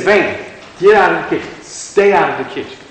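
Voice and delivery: lightly voiced coach-dad order; coach-dad command. Preacher quoting the Lord ordering him out, a hint of coach. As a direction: order someone out like a firm dad. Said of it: "kind of like a coach slash dad".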